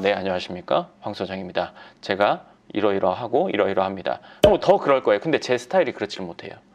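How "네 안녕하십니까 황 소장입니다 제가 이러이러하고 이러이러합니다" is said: voice dropped very low, deep, grave, solemn, formal. A speaker demonstrates a polished formal self-introduction he says isn't his style, lowered voice. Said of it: "목소리 깔고 얘기하면".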